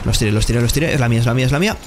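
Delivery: excited. Real, not acted. Clutch moment in fight.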